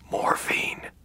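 faint pained whisper. Acted. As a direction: breathe the word out weakly. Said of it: "he whispered".

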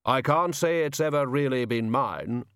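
slow, deliberate solemn figure; slow heavy voice. Acted. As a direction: weigh each word heavily. Hooded figure talking.

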